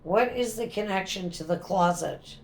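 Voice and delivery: talking to a ghost. Real, not acted. Questioning a spirit aloud.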